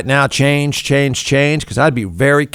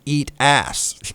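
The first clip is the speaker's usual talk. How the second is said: eat ass dropped much softer; hushed quote; 6 dB quieter than usual. Retold or imitated. Boss tells Jeff the tweet, hushed. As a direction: say eat ass under the breath. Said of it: "your company just tweeted".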